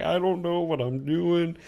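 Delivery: slow, drawn-out helpless repeat; slow dazed repeat. Retold or imitated. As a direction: let it drag out bewildered. Same line repeated slowly.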